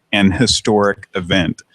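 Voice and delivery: "an" said fully before "historic"; deliberate demo of "an historic event"; stress on AN. Shown as a demonstration. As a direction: lean on AN, then run into "historic event". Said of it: "a lot of people say".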